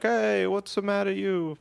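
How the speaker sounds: high, cartoonish angry neighbor; big fat guy. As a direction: imitate an irate man confronting strangers. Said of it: "a big fat guy came out".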